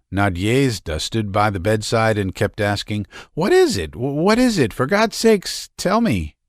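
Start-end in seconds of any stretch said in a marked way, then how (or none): 3.3-6.4 much higher, anxious and pleading; trembling with dread, begging to know; frightened pleading. A narrator's reading. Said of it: "Chill with horror, trembling all over".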